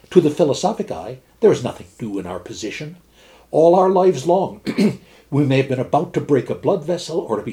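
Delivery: measured storyteller reading a fable aloud; story reading. A narrator's reading. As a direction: read it like a dry, witty old tale. Reads Stevenson fable aloud.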